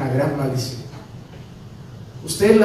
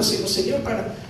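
tearful prayer; 5 semitones higher than usual. Retold or imitated. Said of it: "de noche llorando".

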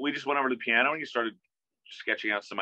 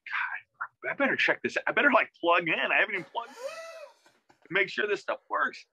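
rising, panicky inner voice, slowing as it climbs; mild retold panic, pitch climbing; panicky self-talk; 11 semitones higher than usual. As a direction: fret aloud that the amp may not work. Panicked self-quote before session.

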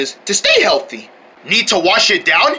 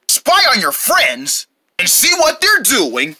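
toy commercial; 2 semitones lower than usual. Acted. Binocular ad read as announcer.

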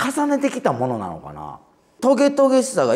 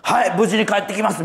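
solemn reply; 6 semitones higher than usual. Retold or imitated. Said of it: "みたいなノリで".

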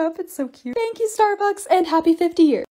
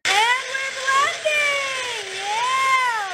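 high, stretched-out holler over the blender; drawn-out shout; 9 semitones higher, much slower than usual. Pretend. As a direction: call it out long and high over the noise. Calling out over running blender.

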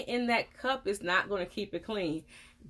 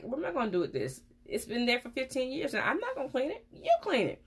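rising to a high exasperated refusal; imitating her own fed-up reply, climbing; mock exasperation; 5 semitones higher, faster than usual. Dentist retelling her fed-up refusal to a patient, rising higher. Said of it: "I'm like".

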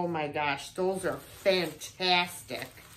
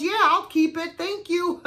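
mom accepting; 8 semitones higher, 5 dB louder than usual. Retold or imitated. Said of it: "She goes".

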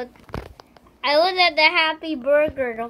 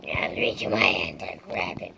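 deep, strange vampire voice; 4 dB quieter than usual. Real, not acted. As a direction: growl it like a vampire. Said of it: "It's like a vampire voice".

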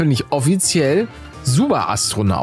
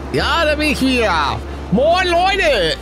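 cheerful greeting; 8 semitones higher, slower than usual. Real, not acted.

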